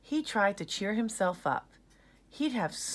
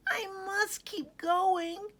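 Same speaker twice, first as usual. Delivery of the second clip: mild panting; slower than usual. Acted. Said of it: "he panted".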